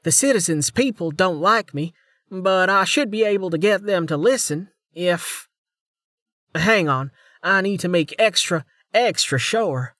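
bright-eyed junior officer voice; young woman voice. A narrator's reading. Female officer's voice.

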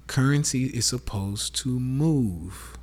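slowed right down, every word weighed; slow teaching repeat for the audience; slow emphatic repeat. Shown as a demonstration. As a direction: repeat it slowly so it sinks in.

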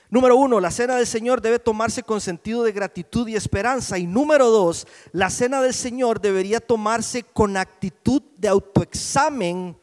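loud preacher announcing points; emphatic preaching. Real, not acted. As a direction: hit each numbered point hard. Preaches the points at full force.

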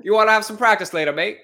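hammed-up British invite, mate; mock British accent. Host trying a British accent on cohost, mock British. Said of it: "more Australian than British".

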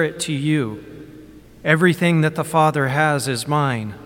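measured Gospel proclamation; solemn reading. Acted. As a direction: proclaim it from the ambo.

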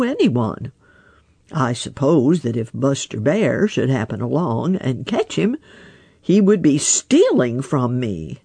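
lightly voiced wise old frog, unhurried; a hint of a croaky old frog musing. Grandfather Frog reasons.

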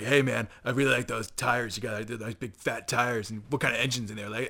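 lightly voiced biker bro; a hint of rock-band dude; rock-band bro talk. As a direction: put on some bro-to-bro talk. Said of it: "talking like they're in a rock band".

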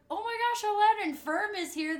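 high, gushing fan squeal; excited fan. Retold or imitated. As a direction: gush like a starstruck fan. Friend quoted gushing over artist.

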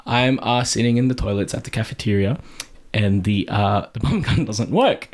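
low, measured, matter-of-fact account; calm explaining. Retold or imitated. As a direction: explain the embarrassing problem evenly, staying composed. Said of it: "I calmly explain".

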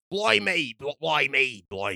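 testing a British accent on "blimey"; drawn-out "blimey" in mock British; practising British accent. Shown as a demonstration. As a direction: try out a hammy British accent. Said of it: "how do you do a British accent?".

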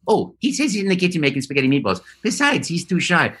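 Mario relaying cheerfully, fast; light Italian plumber voice. Pretend.

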